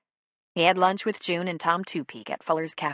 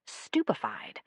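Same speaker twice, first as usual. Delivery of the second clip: whispered; 4 semitones lower, 6 dB quieter, slower than usual. A narrator's reading. Narration whispered.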